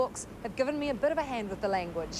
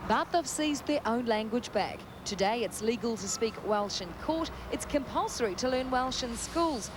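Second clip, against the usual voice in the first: scripted reporter voice, lifted key words; measured, lilting news-package narration; TV feature report read. Acted. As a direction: present it as a light travel feature.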